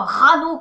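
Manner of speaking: rano said short and dry in one go; dry, clipped. Shown as a demonstration. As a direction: bite off rano all at once. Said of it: "tout sec".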